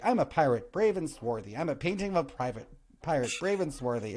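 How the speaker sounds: lightly voiced pirate painting. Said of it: "I'd be like".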